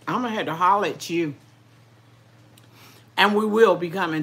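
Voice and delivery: talking while chewing; mouth full. Real, not acted. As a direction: speak round a mouthful. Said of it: "I don't mean to talk with my mouth full".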